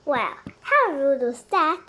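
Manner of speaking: loud slow laughing remark. Acted. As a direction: laugh it off with relief. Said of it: "said Annie, laughing".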